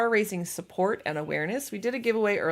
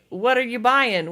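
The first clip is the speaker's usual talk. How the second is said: drawn-out, louder, raised merchant call; merchant catchphrase; 5 semitones higher, 6 dB louder, slower than usual. Retold or imitated. Quoting a game merchant to stream viewers, drawn-out merchant impression. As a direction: quote the merchant slowly, pitched up. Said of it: "would always say".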